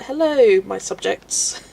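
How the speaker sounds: lightly mock a visiting royal; playful mock-regal hello to the subjects; royal greeting. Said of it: "royals popping over for a visit and being like".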